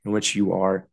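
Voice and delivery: measured prayer with long pauses; heartfelt spoken prayer. Real, not acted. Podcaster praying to Jesus for the listeners, reflective. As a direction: lead listeners gently into prayer, pausing between phrases. Leads prayer and guided imagining.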